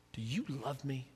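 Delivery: soft, sincere and hushed. Retold or imitated. Jesus asking Peter a third time, softly sincere. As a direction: ask it gently, heart to heart. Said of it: "I can hear the sincerity of his voice".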